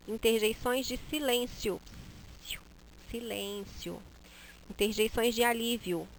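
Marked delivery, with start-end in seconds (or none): 3.1-4.0 soft shushing call; hushing. Shown as a demonstration. Teacher demonstrating a call for silence, soft. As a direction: hush the room. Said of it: "pronunciar da forma como eu queria".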